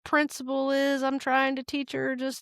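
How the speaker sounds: lightly acted insistent parent; inner rule-keeper. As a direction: argue the principle as an inner voice. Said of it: "this little part of me that's like".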